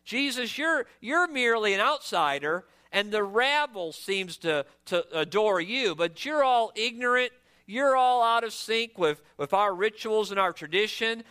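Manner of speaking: mildly haughty, dismissive put-down; arrogant. Acted. Pharisees dismissing Jesus as a mere outsider, mildly arrogant. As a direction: lightly play a know-it-all looking down on an outsider. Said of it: "they're thinking in their arrogance".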